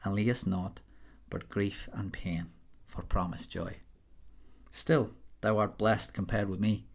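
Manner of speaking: modest attempt at a Scots accent reading Burns; apologetic amateur Scottish accent reciting a poem. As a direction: read the Scots verse in a Scottish accent, half-confident.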